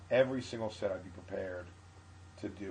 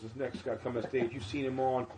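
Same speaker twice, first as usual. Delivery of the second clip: higher, slower, building announcer hype; hype-man host intro; 7 semitones higher, 7 dB louder, slower than usual. Retold or imitated. Host stalling while forgetting the name, building hype intro. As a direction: pump up the crowd like a flustered club host. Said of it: "He goes".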